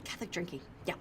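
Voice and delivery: hushed, breathy mock whisper of the name; retold whisper. A friend recalling Sarah's hushed pitch in the session, whispered. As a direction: whisper it like a sneaky suggestion. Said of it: "Sarah popped up where she's like".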